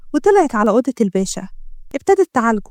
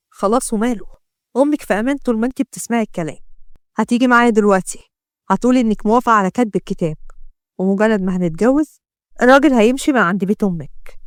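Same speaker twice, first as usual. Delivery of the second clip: suspicious gangster; 2 semitones lower than usual. Acted. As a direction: taunt her with what she saw. Ahmed sets terms.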